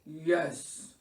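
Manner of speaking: weary bear's yes; murmured by ailing Bear. A narrator's reading. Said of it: "Bear murmured".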